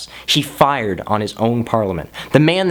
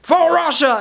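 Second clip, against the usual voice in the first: much higher, slow hammed-up Russian leader rallying the crowd; mock Yeltsin speech; 10 semitones higher, slower than usual. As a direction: ham up a pompous tank-top speech. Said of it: "where he's like".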